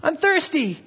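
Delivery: high, loud mock-tearful child pleading; imitating crying son. Father retelling his son Ethan begging for water, mock crying. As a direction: whine it like a desperate thirsty kid. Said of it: "he started crying".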